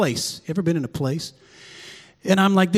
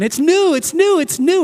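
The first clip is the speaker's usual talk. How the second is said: louder, higher joyful repetition; excited repeat; 10 semitones higher, 5 dB louder than usual. Real, not acted. Pastor telling congregation everything feels new, excited higher voice. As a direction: let the excitement build.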